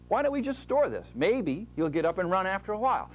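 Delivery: a hint of a scheming muscle; muscle's voice. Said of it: "and your muscles say".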